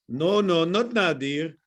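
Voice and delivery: quick mock South African accent on a hooker's line; lightly put-on South African voice; hint of a South African hooker. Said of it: "I don't know why that came out to South African".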